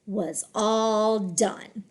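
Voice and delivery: slow, connected "Was all done"; deliberate, flowing "Was all done"; smooth phrase reading. Shown as a demonstration. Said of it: "read smoothly in phrases".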